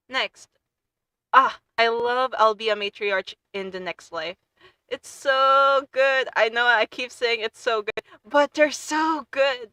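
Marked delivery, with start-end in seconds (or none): 4.9-6.3 slow, higher gushing; dreamy fangirl sigh; drawn-out gush. Real, not acted. Gushing about favorite manhwa. 8.3-9.7 slow, higher swooning praise; drawn-out gush. Real, not acted. Gushing about favorite manhwa.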